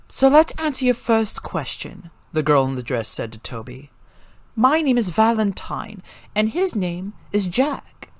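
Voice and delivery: high, bright-voiced young girl; high girl voice, friendly introductions; girl character voice. A narrator's reading. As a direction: lift into a girl's high voice for Valentine. Valentine's character voice.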